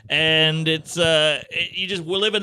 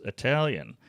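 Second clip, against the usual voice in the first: low dry pilot; 4 semitones lower, 5 dB quieter than usual. Retold or imitated. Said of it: "He goes".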